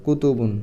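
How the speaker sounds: কুতুবুন spoken slowly in careful Arabic; Arabic plural. Shown as a demonstration. Teacher reading the Arabic plural to the class. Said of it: "তখন এটা হয়ে যাবে এরকম".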